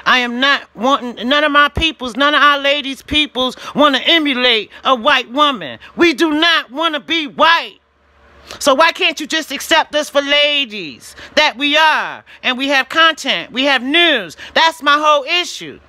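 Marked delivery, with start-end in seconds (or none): 6.0-10.2 angry shout. Real, not acted. Angry rant at YouTube.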